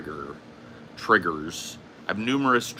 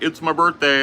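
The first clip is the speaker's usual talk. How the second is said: imitating Boogie; 6 semitones higher, 6 dB louder than usual. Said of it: "And he'll be like".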